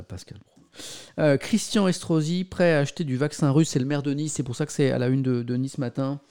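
ordinary talk, nothing marked

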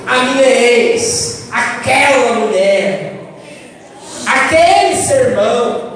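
slow, grudging mock resentment; bitter, hurt naming. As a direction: say it like you won't say their name. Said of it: "você tá irado, zangado, magoado". (mágoa lenta e rancorosa, sem dizer o nome)

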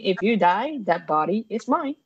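casually matter-of-fact claim. Pretend. Mortician player lays claim to friends' bodies, matter-of-factly. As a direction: state it as simple fact, no drama. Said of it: "So matter-of-factly".

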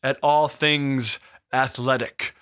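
slow, grand segment announcement; announcer intro. Acted. Host opening the predictions segment, slow announcer voice. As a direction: announce the new segment like a show opener.

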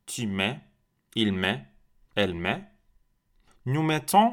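brisk drill run; conjugation drill. Shown as a demonstration. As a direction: go through the forms briskly. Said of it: "Répétez une autre fois".

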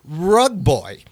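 hammed-up game show introduction; announcer intro. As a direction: present him like a showman. Announcing the guest.

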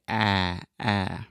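tongue and lips forward, Ah; saying ahh. Shown as a demonstration. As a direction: open front ah, said twice. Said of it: "pushing everything ... to the front".

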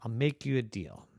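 secretive whispered offer; whispering. Acted. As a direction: lean in and whisper. Train person whispers offer.

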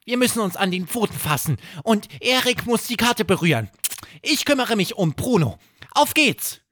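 Hoppel Stimme. Acted. Hoppel erklärt die Abreise.

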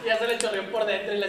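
laughing while talking. Real, not acted. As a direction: talk through laughter. Laughing at the joke.

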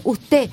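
"usted" without its final D; final consonant dropped. Shown as a demonstration. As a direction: say "usted" ending on an open E. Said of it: "No dice".

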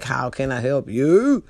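drawn-out greeter voice with a rising last word; sing-song service greeting. Retold or imitated. Manager answering the drive-thru headset, sing-song greeting. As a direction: stretch it into a syrupy customer greeting.

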